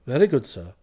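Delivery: very low, formal acknowledgement; unruffled valet. Acted. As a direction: accept it without a ripple. Jeeves calmly accepts being sacked.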